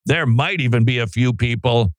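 over-the-top hype announcer read; sports announcer hype. Acted. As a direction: sell it like a big sports promo. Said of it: "it says announcer over the top sports hype tone".

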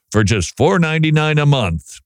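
a hint of an upbeat ad read; car commercial voice. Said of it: "have you noticed on the car commercials".

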